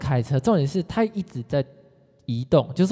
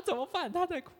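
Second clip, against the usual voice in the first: high, much softer, almost breathless alarm; hushed panic; 10 dB quieter than usual. Retold or imitated. Teacher fretting softly outside the room about the crying client. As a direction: keep it hushed but frantic.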